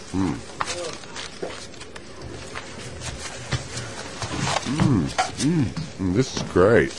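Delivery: eating while talking; mouth full. Real, not acted. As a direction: talk through a mouthful. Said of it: "Hits the proverbial spot".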